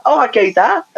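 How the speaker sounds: put-on chirpy Polish-accented hello, lifted high; high mock Polish accent greeting; Polish geezer. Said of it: "It's like Polish geezer".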